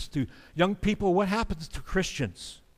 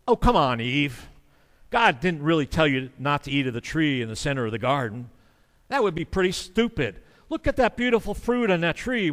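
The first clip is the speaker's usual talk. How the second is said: mocking sarcasm. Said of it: "You kinda hear the mockery and sarcasm".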